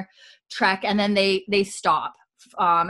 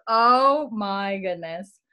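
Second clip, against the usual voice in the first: slow, breathy whispered oh my goodness; whispered aside; much slower than usual. Retold or imitated. Host retelling how she whispered to herself while rewatching. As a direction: hush it like a private reaction.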